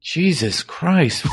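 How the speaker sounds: long high laugh after the scene; laughing after finishing the scene; cracking up. Real, not acted. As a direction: laugh out the tension.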